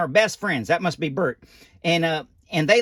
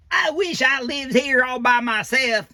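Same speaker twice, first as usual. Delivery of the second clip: high, slow, strained mock yell; hammed-up furious puppet shout; angry shout; 7 semitones higher, slower than usual. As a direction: shout it like a fed-up roommate. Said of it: "he shouts".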